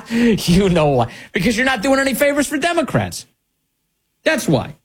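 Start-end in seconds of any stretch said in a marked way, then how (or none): 0.1-1.1 knowing laugh. Real, not acted. Host spelling out the caucus's motive, slow laughing. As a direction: drag it out through the laugh.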